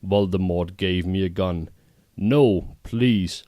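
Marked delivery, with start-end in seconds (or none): 2.2-3.4 pleading, a little higher and louder; begging. Acted. Ebony begs Voldemort not to make her shoot, pleading. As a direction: beg him to spare you. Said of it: "I begged".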